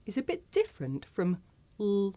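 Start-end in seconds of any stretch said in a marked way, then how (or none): 1.8-2.1 dark L, as at the end of a syllable; L as a held, dark "ul" sound; syllable-final L. Shown as a demonstration. Teacher showing learners L at the end, syllable-final L. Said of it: "at the end of a syllable".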